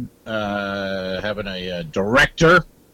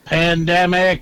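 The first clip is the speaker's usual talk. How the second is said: mock ominous; 3 semitones higher, much slower than usual. Echoing the ominous sting.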